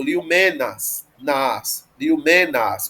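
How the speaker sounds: liomenas with a drawn-out a in nas; long final vowel. Shown as a demonstration. Teacher showing the accusative, liomenas ending in long a. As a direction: stretch the last a of liomenas. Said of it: "porque é longo".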